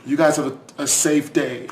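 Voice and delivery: mock killer backing out sheepishly; hammed-up sorry killer; apologetic killer. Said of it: "And they're like".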